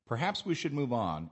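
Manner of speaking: suggestion phrased firmly, falling at the end; firm statement tune dropping on "move on"; firm falling intonation. Shown as a demonstration. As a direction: let "Perhaps we should move on" fall firmly to the end. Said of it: "said in a firm way, with a falling intonation".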